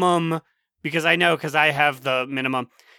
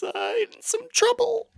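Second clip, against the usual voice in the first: mock ominous; 3 dB quieter than usual. Mock-worried verdict on the book.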